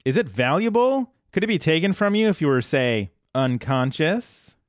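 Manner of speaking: lightly voiced scheming robot; Bender. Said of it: "Bender is literally like".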